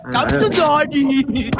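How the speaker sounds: slow, drawn-out teasing call; mock flirty daddy. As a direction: stretch it out like a cheesy flirt. (mabagal at pabirong pang-aakit)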